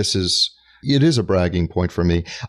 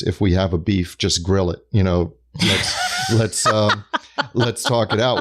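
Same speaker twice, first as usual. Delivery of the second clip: laughing quote. Retold or imitated. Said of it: "as one of my friends says".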